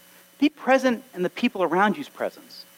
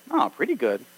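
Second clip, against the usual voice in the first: lower, dropped "Oh, pretty good"; knowing echo; 5 semitones lower than usual. Retold or imitated. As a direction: echo it back, catching the doubt. Noticing the answer.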